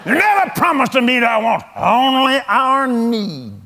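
retold hollering. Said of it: "Just hollering at me".

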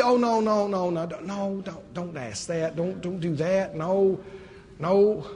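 soft, hushing voice of the enemy; voicing the enemy. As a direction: shush them like a nervous deceiver. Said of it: "The enemy will always tell you".

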